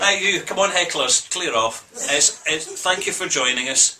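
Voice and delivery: mock announcer. Jokingly shoos hecklers off.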